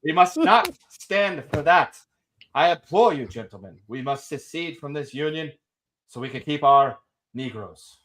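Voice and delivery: lightly voiced Confederate orator, laughing through it; hammed-up Southern speech to gentlemen, barely in voice; mock colonel rallying the gentlemen, partly laughing. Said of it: "I'm all about being Kentucky Colonel Kendo".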